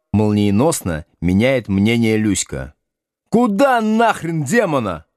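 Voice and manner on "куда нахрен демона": shouting. A narrator's reading. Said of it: "орёт Градусов".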